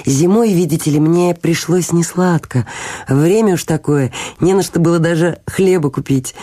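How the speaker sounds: lightly voiced humble little man; apologetic little Hans. Hans admits to the miller what he pawned, mildly apologetic. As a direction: explain the hardship with simple candour. Story figure, Hans explaining.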